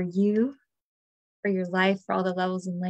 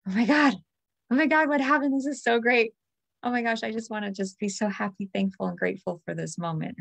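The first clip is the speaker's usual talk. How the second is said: retold excited joy; 2 semitones higher than usual. Retelling waking up to extra money, excited then grateful. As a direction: relive the shock of a surprise windfall. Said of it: "And I just laid there and was like".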